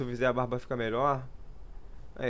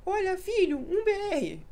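much higher squeaky meme voice; slower than usual. Retold or imitated. Quoting an old meme in a squeaky voice. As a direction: toss off the meme in a tiny high voice. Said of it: "tinha muito meme assim, tipo".

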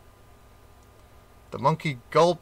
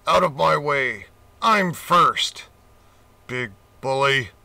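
louder, bossy shoving voice; pushy shout; 4 dB louder than usual. A narrator's reading. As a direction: elephant shoves others aside, loud and bossy. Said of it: "he boasted".

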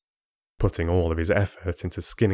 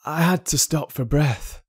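put-on frail young man; 7 semitones higher than usual. Sickly son excusing himself.

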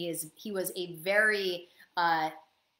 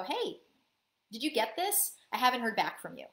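innocent; 2 semitones higher than usual. Shown as a demonstration. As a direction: ask as if you truly just wonder. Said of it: "you're just gonna be really innocent".

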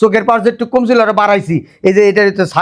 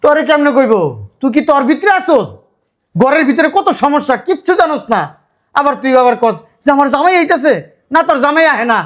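scolding; 4 semitones higher than usual. Acted. Scolding sister who knows nothing.

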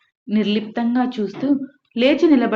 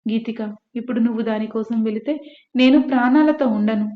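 a mother's threat, rising louder at the end; threatening; 3 dB louder than usual. Acted. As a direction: warn her off with a hard, raised final line. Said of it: "అని బెదిరించింది రత్తాలు". (బెదిరిస్తూ, చివర గొంతు పెంచి)

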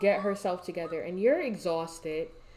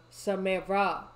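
raised-voice call; 2 semitones lower, slower than usual. Real, not acted. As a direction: call sharply to get their attention. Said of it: "I had to yell at her".

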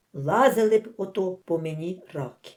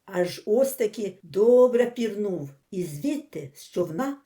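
usual speaking voice

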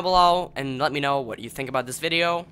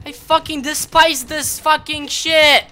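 slow, higher and louder furious complaint; seething rage; 12 semitones higher, 11 dB louder than usual. Real, not acted. Gamer cursing the game he plays, slow seething rage. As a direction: spit it out, slow and hateful.

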